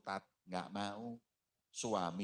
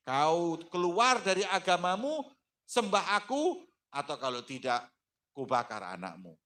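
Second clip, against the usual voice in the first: threatening tyrant; 7 semitones higher, 6 dB louder than usual. Acted. Pharaoh threatens again.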